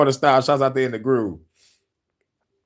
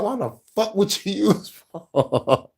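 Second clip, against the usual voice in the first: slow, drawn-out imitation, pitched up; mock calm conviction; 5 semitones higher, slower than usual. Viewer mimicking the ex-pastor's tone, mock calm conviction. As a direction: stretch it out, mimicking his sure tone. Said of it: "you can hear it in his tone".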